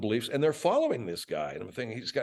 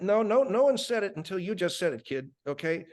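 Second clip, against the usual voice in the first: chef voice; 8 semitones higher than usual. Acted. Chef replies to Bud in skit.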